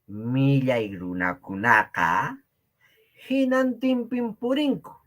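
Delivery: Millay runakunaqa spelled out slowly, each word given space; slow it down so the class can follow; slow, careful repeat. Shown as a demonstration. Teacher repeating the Quechua phrase for students, slowly. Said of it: "Una vez más".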